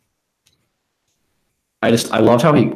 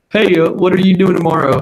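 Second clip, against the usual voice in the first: much higher-pitched voice of a friend; imitated wheedling caller; 8 semitones higher than usual. Friend calling to fish for a ride, imitated high voice. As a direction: ask in a raised, put-on phone-call voice.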